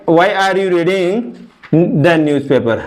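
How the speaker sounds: slow dictation. Shown as a demonstration. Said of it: "आईएनजी लगा दो इसमें".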